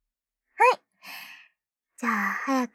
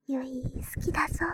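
mock brother's line; much faster than usual. Shown as a demonstration. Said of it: "ゆいのこと好きって言いながらもだえてよ".

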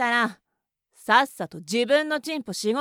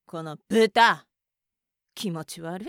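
slow contempt; 6 semitones lower than usual. Acted. Insulting the masochist.

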